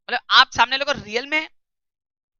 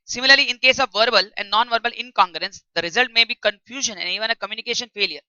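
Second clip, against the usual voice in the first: slow, deliberate English read-aloud for students; textbook reading; much slower than usual. Shown as a demonstration. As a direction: read each phrase out slowly like dictation.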